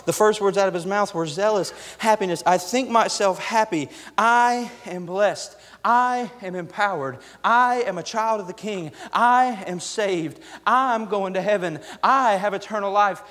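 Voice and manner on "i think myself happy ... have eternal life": drawn-out, deliberate proclamations; slow bold declarations. Acted. Paul declaring his blessings in court, slow and bold. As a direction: proclaim each line slowly like a creed.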